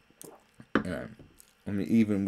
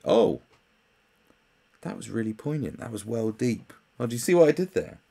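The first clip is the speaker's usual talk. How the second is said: mock smug idiot; 4 semitones higher, 4 dB louder than usual. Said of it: "idiots will say".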